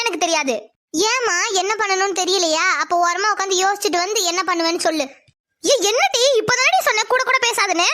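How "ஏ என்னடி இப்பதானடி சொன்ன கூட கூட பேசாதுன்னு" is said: sharp scold. Acted. Mother scolding in argument.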